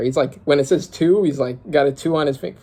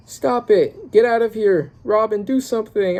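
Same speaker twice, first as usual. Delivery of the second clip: panicked yell; 8 semitones higher than usual. Acted. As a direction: shout in panic to drive him off. Character yells at attacker.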